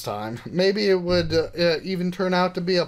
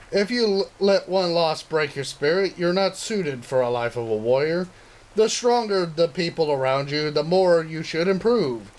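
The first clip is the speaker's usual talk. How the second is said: manga hero speech; 3 semitones higher than usual. Acted. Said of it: "repeating the words I remembered from a certain manga".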